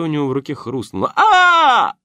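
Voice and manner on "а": high loud thug scream of pain; sharp cry as bone cracks. Acted. Хрустнуло в руке. (резкий крик боли)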